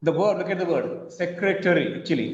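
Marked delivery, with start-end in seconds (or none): 1.1-2.0 "secretary" in four syllables; spelling-based pronunciation. Shown as a demonstration. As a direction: say "secretary" with every written syllable sounded. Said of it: "It is not secretary".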